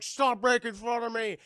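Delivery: hammed-up wounded shout; mock protest yell. Villain protests in retold fight.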